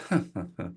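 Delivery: short mocking chuckle, imitated; derisive laugh. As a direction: imitate a table's scornful snicker. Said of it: "just kind of sort of derisive laugh".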